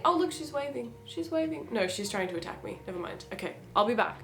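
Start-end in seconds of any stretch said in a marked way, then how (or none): 0.0-0.9 high cooing pet voice. Real, not acted. Baby talk to kitten. 1.1-1.7 high, softer cooing repeat. Real, not acted. Baby talk repeated softer.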